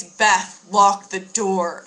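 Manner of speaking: mock roommate warning her to lock up; urgent warning.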